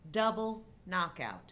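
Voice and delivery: slowed-down replay voice, stretching each word. Shown as a demonstration. Host describing a movie knockout, in mock slow motion. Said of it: "Slow-mo".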